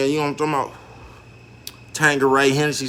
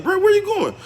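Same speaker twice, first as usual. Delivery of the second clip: calling out. Retold or imitated. Calling out to old friend.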